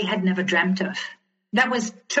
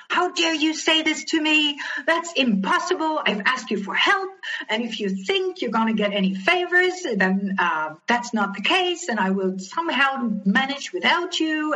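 indignant, pitched higher at the start, then easing; replaying her furious reply, half-acted; mock indignant tirade; retold outburst; 5 semitones higher than usual. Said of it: "I went up like a nuclear bomb".

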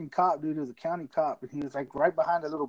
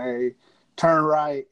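imitated intercom order; 5 dB louder, much slower than usual. Trooper ordering a driver at a red light, intercom voice. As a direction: state trooper's terse command over the intercom. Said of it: "gets on the intercom".

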